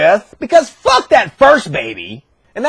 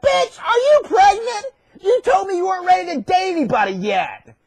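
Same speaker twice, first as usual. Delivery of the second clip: high, squealing indignation; outraged accusation; 7 semitones higher than usual. Acted. Joseph confronting pregnant Mary, outraged. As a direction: confront her in high-pitched disbelief.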